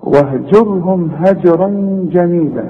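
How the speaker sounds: slow recitation, bounced ج in هجرا; qalqalah in هجرا. Shown as a demonstration. Teacher asking students to listen, qalqalah in هجرا. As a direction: echo the still j of هجرا. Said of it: "إنما الثانية".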